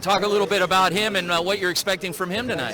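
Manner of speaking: loud, projected broadcast voice over the gym; big TV host voice pitched to carry; sideline reporter. Acted.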